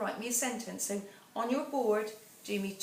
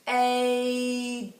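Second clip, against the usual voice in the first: P-aid split and louder; sounded out slowly; 3 semitones higher, 8 dB louder than usual. Shown as a demonstration. Teacher segmenting paid for the class. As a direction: pull the sounds of P-aid apart, loud. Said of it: "get it out slowly".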